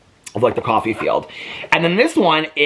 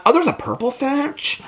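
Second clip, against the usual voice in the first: high, gushing squeals of delight, slowing on the gasps; real thrill spilling over at each picture; squealing over owls and woodpeckers in a gift book; excited squeal; 6 semitones higher than usual. Real, not acted. Spotting birds in book.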